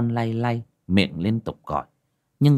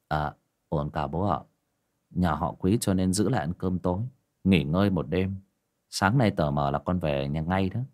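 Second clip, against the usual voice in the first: a hint of a lower, easy son's voice; lightly voiced young son; 3 semitones lower, 3 dB quieter than usual. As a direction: answer the father calmly, a little lower. Son answers his father.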